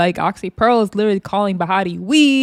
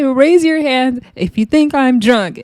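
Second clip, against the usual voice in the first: high mock challenge; 6 semitones higher, slower than usual. Oxy Pearl challenging the van.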